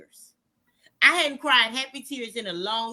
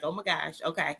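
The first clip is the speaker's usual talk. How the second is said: mildly embarrassed brush-off; 6 semitones lower, 8 dB quieter than usual. Retold or imitated. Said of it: "I'd be like".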